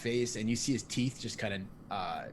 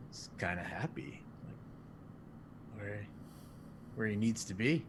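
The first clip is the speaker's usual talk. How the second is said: whisper; 6 dB quieter than usual. Acted. Whispered aside about Sig.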